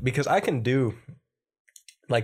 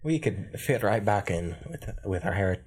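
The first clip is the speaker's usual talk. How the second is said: lower, put-on Irish voice; Irish accent; 3 semitones lower than usual. Host joking about ancestors' Ireland, Irish accent. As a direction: slip into a low Irish accent. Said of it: "Irish accent a lot easier".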